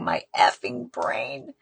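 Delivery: slow tearful cry of frustration rising high; retold anguished outburst. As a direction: echo his despair through her own tears. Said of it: "pounding his fists and saying".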